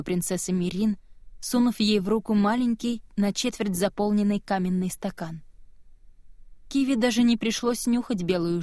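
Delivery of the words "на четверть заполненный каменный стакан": ordinary delivery, nothing marked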